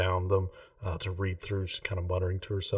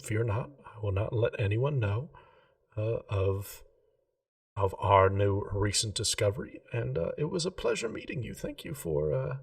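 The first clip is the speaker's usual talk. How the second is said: a lightly voiced, slightly higher shopkeeper, polite and earnest; a hint of a prim gem-shop lady, keen on geometry; Remy the jeweller; 4 semitones higher than usual. Remy promises secrecy, says goodbye.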